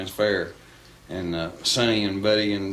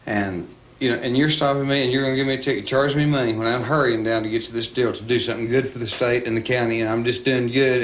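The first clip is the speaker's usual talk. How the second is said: cocky protest; 3 semitones higher, 3 dB louder than usual. Retold or imitated. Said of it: "he had that kind of attitude".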